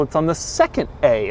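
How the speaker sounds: normal talking voice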